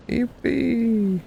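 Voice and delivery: high mock cheer. Real, not acted. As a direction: cheer it sarcastically. Sarcastic cheer again.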